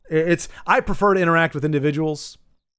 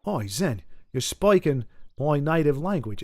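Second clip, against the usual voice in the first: put-on Australian accent; 4 dB quieter than usual. Streamer retrying an Australian viewer's message, light Australian accent. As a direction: try the Australian phonetic reading, more subdued. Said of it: "you do the accent".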